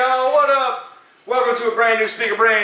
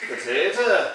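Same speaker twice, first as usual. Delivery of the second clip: laughing mock Irish; 4 dB quieter than usual. Mocking Irish stereotype.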